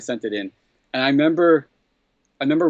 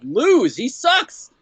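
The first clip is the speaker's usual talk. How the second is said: mock disgust; 13 semitones higher, 3 dB louder, much slower than usual. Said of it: "And I remember going".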